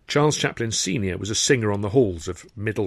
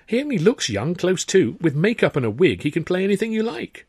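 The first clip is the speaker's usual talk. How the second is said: higher, pressing insistence; insistent Sidney; 9 semitones higher, 4 dB louder than usual. Acted. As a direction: argue the boy can play any part. Sidney insists on his brother.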